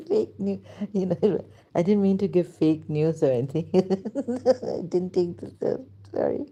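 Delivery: giggling through an embarrassed apology; sheepish giggly apology; laughing. Real, not acted. Embarrassed laughter over fake news.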